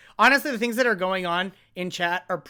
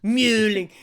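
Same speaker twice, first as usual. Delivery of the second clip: Avatar quote; 5 dB louder, slower than usual. Retold or imitated. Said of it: "to quote Avatar".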